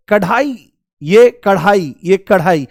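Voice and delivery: कढ़ाई with an aspirated flap, shown carefully; flapped ढ़ in कढ़ाई. Shown as a demonstration. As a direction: flick the tongue on ढ़ in कढ़ाई with a puff. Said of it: "इस्तेमाल हो रहा है आपका अढ़ का". (कढ़ाई में नुक्ते वाला महाप्राण ढ़)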